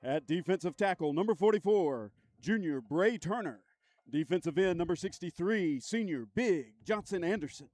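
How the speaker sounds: stadium announcer calling the lineup; lightly booming PA read. Acted. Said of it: "I wanna use my P A voice".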